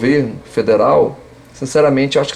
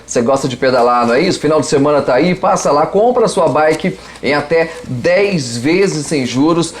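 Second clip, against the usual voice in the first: upbeat sponsor announcement; ad read. Acted. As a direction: sell it like a radio spot.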